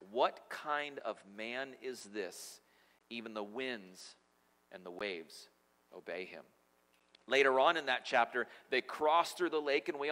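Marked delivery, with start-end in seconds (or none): 0.1-6.4 slow, soft and low, in awe; hushed amazement. A narrator's reading. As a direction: let the wonder sink into a hush. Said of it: "The men were amazed and asked".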